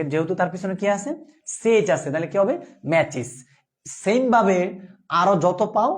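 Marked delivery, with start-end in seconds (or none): 2.9-3.3 ম্যাচেস said as ma-chis, ending in a clear -is; pronunciation demo. Shown as a demonstration. Teacher answers own question on ম্যাচেস, clear -is ending. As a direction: model ম্যাচেস for the class, with the -is ending. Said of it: "উচ্চারণটা কি হবে?".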